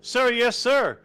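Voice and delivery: barked military shout, high and loud; drill sergeant. Acted. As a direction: yell it like a recruit on parade. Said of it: "I think you need to lower your voice".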